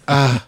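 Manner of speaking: feeble little "uh"; short mock effort grunt, barely grabbing; weak, hapless grab noise; pathetic grab grunt. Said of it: "the world's most pathetic grab".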